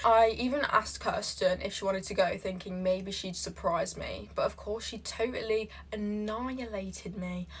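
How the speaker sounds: put-on American accent for reading aloud. Reading a relationship post aloud, put-on American accent. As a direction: read it out in an imitation American accent. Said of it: "I'm gonna do this in American accent".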